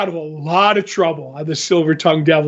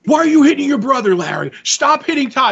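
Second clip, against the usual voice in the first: mock mom scolding, quick and higher; scolding mother; 6 semitones higher than usual. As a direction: tell the kid off from the next room. Mother voiced scolding in a story.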